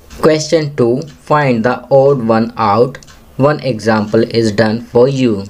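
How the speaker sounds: very slow, deliberate classroom reading; teacher's slow read-aloud; slow instruction reading. Shown as a demonstration. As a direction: read each English word slowly for young learners. Teacher reads question aloud.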